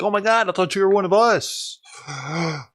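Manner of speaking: mocking a heartbroken viewer who feels betrayed; mock betrayed fan. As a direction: ham up a betrayed follower gasping. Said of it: "people are gonna be like".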